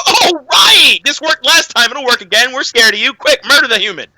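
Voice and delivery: sudden high "oh right" of dim followers; mock dim orcs. Mocking the orcs to a friend, high and eager. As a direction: play them as eager sheep. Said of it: "they'd all go".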